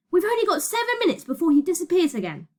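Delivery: high, pressing voice; urgent warning. Acted. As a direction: warn urgently that time is short. Urgent countdown on runaway train.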